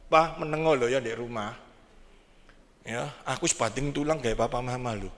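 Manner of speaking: put-on a grown son scolding his elderly father; irritated grown child. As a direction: snap back at your old parents. Grown child snapping at parents.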